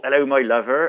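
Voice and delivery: imitating a West Country accent; mock rural West Country greeting. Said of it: "Only your accent".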